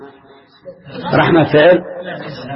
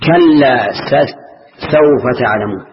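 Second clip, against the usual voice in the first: very slow, stretched chant of the verse; teacher reciting from Surat al-Takathur; Quran recitation; 2 semitones lower, much slower than usual. Shown as a demonstration. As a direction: draw out كلا and سوف تعلمون like recitation. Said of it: "في سورة ألهاكم".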